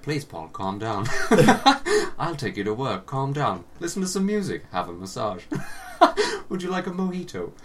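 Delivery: lightly voiced soothing car; soothing talking car. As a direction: play a car gently placating a furious driver. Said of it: "my car was like".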